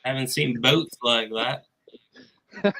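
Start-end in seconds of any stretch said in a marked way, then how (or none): 0.0-1.6 shaky attempt at an Australian accent; put-on Australian. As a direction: play an Australian host, accent slipping. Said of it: "you do the Australian".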